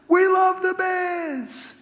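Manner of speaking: long, high stadium holler; big booming voice. Retold or imitated. Fan cheering the Bears from the stands, booming yell. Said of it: "this big booming voice".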